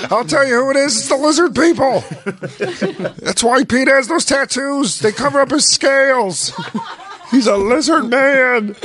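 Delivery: high, laughing mock conspiracy rant; spiraling conspiracy rant. Host mocks the comic ranting about lizard people, high laughing mock rant. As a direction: unravel into a crazy theory. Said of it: "he just spirals in a weird way".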